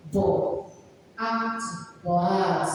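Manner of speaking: "Bo" and "at" as separate syllables; child's faulty blending. Shown as a demonstration. Child reading bat with an added vowel, unblended. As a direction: break it into "Bo", pause, "at". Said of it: "when they want to read it".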